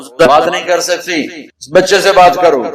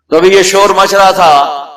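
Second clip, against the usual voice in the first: ordinary delivery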